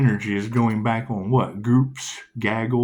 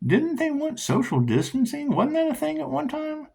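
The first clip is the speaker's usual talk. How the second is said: sarcastic. Real, not acted. Sarcastic question.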